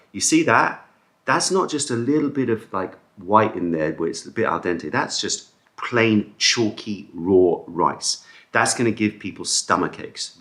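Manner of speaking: retold insistent protest, starting high; indignant complaint. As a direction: re-enact making your point to the kitchen. Re-enacts arguing over undercooked rice.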